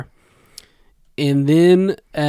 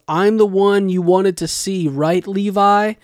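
higher-pitched imitation of a yell; lightly acted call-out, pitched up; mild mock yell; 5 semitones higher, 3 dB louder than usual. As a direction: retell a shouted taunt without fully yelling. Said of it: "He yells".

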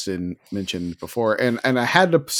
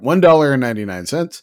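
louder, quick repeat of the price; mock amazement; 2 semitones higher, 5 dB louder, faster than usual. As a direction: exclaim the price in pretend disbelief. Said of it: "I'm getting choked up talking about it".

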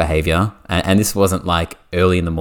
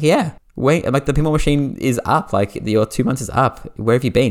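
exasperated high; 7 semitones higher than usual. Retold or imitated.

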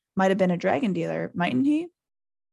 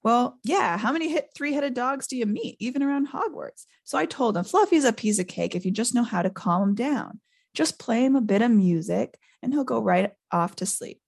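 lightly voiced groundskeeper, higher at first; offhand, chatty boasting; breezy Hagrid; 5 semitones higher than usual. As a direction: explain it casually, as if it were nothing. Voices Hagrid boasting about Fluffy.

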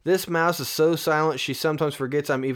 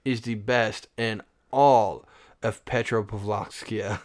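put-on Russian accent. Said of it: "like a Russian?".

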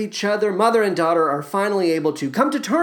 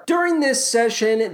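ordinary talk

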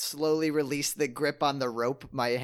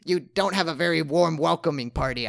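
brash adventurer; 5 dB louder than usual. Acted. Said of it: "I say".

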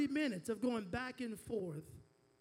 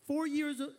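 "Four" punched and a bit louder; stressed four; 3 semitones higher, 5 dB louder than usual. Shown as a demonstration. Pastor cueing congregation to repeat, stressing four. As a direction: hit "Four" for the church to echo. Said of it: "Everybody say four years old".

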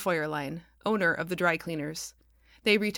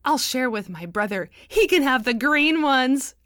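chortled; 5 semitones higher, 7 dB louder than usual. A narrator's reading. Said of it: "Asher chortled".

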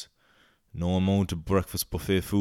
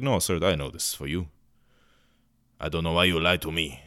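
put-on European accent. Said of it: "I don't know where my accents are coming from".

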